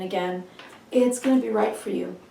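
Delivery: slightly hoarse, froggy voice; froggy throat. Real, not acted. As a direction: speak through a froggy throat. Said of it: "Pardon my froggy throat".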